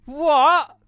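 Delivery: usual speaking voice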